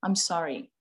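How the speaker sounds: put-on sincere apology to child. Shown as a demonstration. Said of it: "you go to your child and you said".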